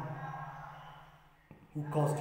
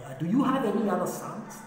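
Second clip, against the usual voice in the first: tentative question, pitched up; puzzled asking; 6 semitones higher than usual. Acted. Samuel asks Jesse when the oil won't pour, puzzled. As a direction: ask it higher, without pushing.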